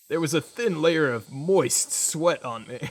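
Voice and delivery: booming slow game announcer on moist; Halo announcer. Acted. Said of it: "you said it like the Halo announcer".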